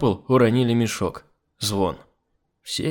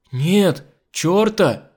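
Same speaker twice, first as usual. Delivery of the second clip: earnest, raised higher voice; dead serious; 7 semitones higher, 5 dB louder, much slower than usual. A narrator's reading. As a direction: report it in all seriousness. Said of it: "абсолютно серьёзно сообщила Нюша". (совершенно серьёзно)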